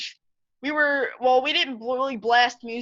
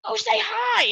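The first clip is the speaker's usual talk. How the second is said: dad's urging; 12 semitones higher than usual. Retold or imitated. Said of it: "And he's like".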